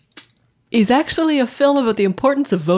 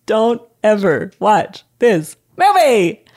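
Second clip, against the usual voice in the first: slow and grave; much slower than usual. Acted. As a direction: drag out each word gravely. Solemn verdict after wailing.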